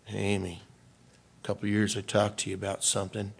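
dad softly reminding his crying daughter; gentle quiet reminder. Retold or imitated. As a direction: ease into it softly. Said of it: "And I said".

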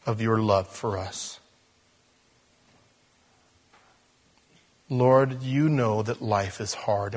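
slow, earnest prayer with long pauses; pastor's unhurried closing prayer; leading prayer. Real, not acted. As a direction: address the Lord in measured, weighty phrases.

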